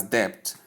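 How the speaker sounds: "debt" with an audible B; wrong debt, B sounded. Shown as a demonstration. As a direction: say "debt" as "debpt". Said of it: "that the B is what?".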